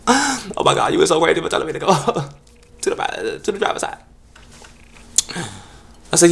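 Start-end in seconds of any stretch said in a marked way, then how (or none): 0.1-4.0 much higher, loud, fast camp voice; mock campy guy. Solicitor gushing at the driver, high and camp.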